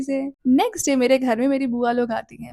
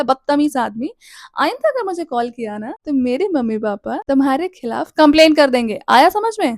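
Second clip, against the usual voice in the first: louder toward the end, a stern telling-off; retold angry scolding; 4 dB louder than usual. Girl threatening her stalker over the phone, building to a loud scold. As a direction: put the rude boy firmly in his place.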